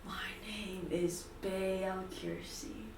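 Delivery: slow, lightly rasped dark figure; slow introduction from a shadowy being; dark, raspy voice. Acted. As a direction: give the name slowly, in a dark rasp. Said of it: "a dark, raspy voice".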